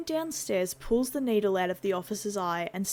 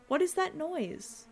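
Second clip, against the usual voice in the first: puzzled cop voice; 9 semitones higher than usual. Acted. Police officer asks about noise.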